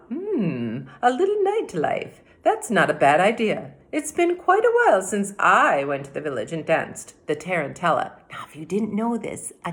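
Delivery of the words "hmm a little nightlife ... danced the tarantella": witch musing aloud. Acted. The witch talks herself into a night of dancing, louder. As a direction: muse to herself, warming to the idea. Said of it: "said to herself".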